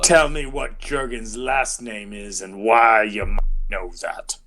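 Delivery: put-on voice of a suspicious gatekeeper; questioning guard voice. Hidden guard tests visitors who dropped a name, challenging character voice. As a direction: demand an answer as the guard.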